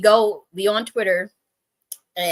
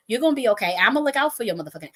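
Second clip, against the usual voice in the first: higher-pitched mock-annoyed promise; imitated pissed-off reassurance; 4 semitones higher, faster than usual. Pissed-off man reassuring her, imitated with mild annoyance. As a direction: promise protection as if fed up. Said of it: "this is how he said".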